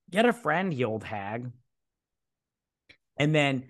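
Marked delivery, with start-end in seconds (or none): 0.1-1.5 mock scorn. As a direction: jeer along with mock contempt. Speaker's own scornful echo of reply.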